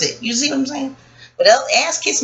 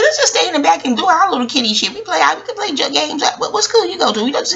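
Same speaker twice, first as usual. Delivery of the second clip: put-on higher childlike voice, lightly done; young self; 6 semitones higher than usual. A hint of a kid telling friends to stay in the back room. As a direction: talk like a seven-year-old persuading friends. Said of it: "I'm like".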